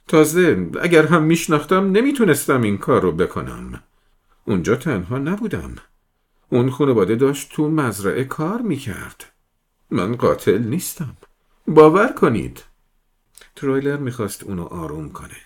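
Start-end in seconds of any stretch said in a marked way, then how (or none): 0.1-11.2 loud, high, desperate shouting; distraught shouting. Acted. 11.7-12.6 very loud, high cry of "باور کنید"; desperate shout. Acted.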